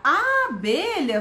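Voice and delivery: "abelha" slowed, leaning on initial A; stretched first sound. Shown as a demonstration. Teacher inviting children to say "abelha", long A. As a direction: lengthen the A opening "abelha". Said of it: "Viu que o início eu foquei no som?".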